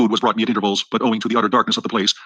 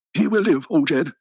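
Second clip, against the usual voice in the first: higher voiced old woman, lightly done; ancient ugly female; 5 semitones higher, slower than usual. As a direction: pitch her voice up for the ancient healer. Healer woman speaks to Jed.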